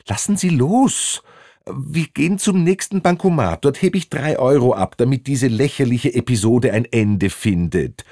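high-pitched exasperated protest; acted agitation, pitch easing down; agitated passenger. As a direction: protest high, then settle into bargaining. Gripped man protests and bargains.

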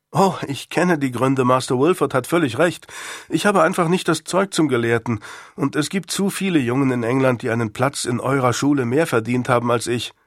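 a hint of a frank young pupil; lightly voiced earnest schoolboy. Pupil admits to his master he's no scholar, lightly voiced and earnest. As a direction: lightly play a boy owning up to his master. Boy Nick's dialogue in story.

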